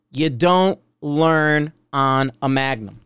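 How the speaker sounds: slow, deliberate preaching; preachy, emphatic pronouncement. Real, not acted. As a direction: lay it down slowly, word by word. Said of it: "I'm gonna preach".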